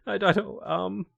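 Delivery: high, coaxing seducer voice; tempting devilish whisper. Pretend. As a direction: sweet-talk her into wanting it. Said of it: "tempting the AI leader".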